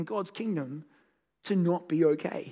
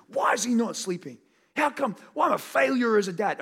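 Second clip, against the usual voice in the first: frustrated; 5 semitones higher, 5 dB louder than usual. Retold or imitated. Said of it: "And I'm angry".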